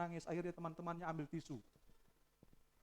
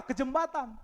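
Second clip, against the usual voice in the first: high, loud preaching reply; loud answer; 10 semitones higher, 11 dB louder than usual. Acted. Preacher answering his own question, loud. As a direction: snap back the answer.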